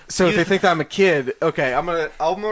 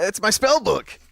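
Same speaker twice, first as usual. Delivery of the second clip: put-on child voice; 3 semitones higher, slower than usual. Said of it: "I'm gonna try, character voice".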